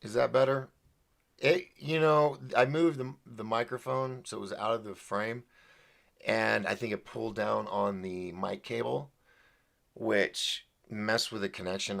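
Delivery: mic popping on plosives; bad mic connection pops; popping p sounds. Real, not acted. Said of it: "popping sounds too".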